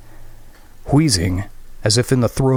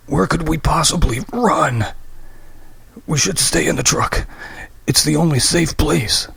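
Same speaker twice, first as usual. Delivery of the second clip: scared pleading; 7 semitones higher than usual. Acted. Frightened man pleading.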